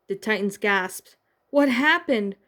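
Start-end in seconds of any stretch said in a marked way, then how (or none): 1.5-2.4 higher, louder startled question; confused gasp. A narrator's reading. Cyborg finding the kidnapping scene, startled higher question. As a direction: ask it caught off guard. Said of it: "Cyborg gasped in confusion".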